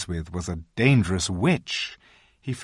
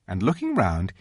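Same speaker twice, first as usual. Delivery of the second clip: usual speaking voice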